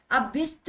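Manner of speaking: अभ्यस्त turned into अभिस्ति; wrong vowels. Shown as a demonstration. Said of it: "नहीं". (अभ्यस्त को अभिस्ति की तरह)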